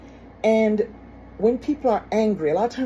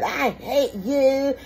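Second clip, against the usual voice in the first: a higher, drawn-out kid's I hate you, lightly voiced; mock yelling child; 6 semitones higher, much slower than usual. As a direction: imitate a child shouting at a parent, not full force. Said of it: "other kids yell out to their mom and dad".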